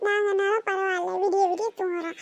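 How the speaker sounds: whining with a sob in the voice; tearful complaint. Acted. Daughter whining tearfully to her mother at bedtime. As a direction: complain through tears.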